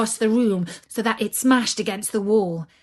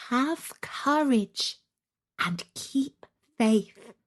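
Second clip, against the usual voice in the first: slow, gentle comfort; calm reassuring doll; 2 semitones higher, slower than usual. Acted. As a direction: soothe a frightened child, slowly.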